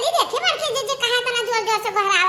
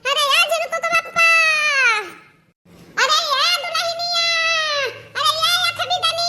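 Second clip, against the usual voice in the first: drawn-out call, higher and slow; 3 semitones higher than usual. Acted. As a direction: holler slowly for the daughter-in-law. Mother-in-law calling the bride. (बहू को खींचकर ज़ोर से पुकारती सास)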